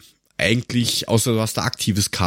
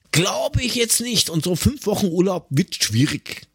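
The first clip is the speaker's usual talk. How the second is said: sarcastic; 8 semitones higher than usual. Real, not acted. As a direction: drag it out with mock disbelief. Sarcastic verdict on fake job offer. (langsam und spöttisch ungläubig, viel höher)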